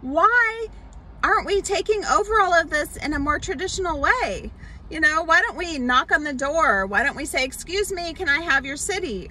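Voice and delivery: mock-bewildered Israelite; puzzled Israelites. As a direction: play a confused crowd member who doubts the plan. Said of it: "Probably all the Israelites were like".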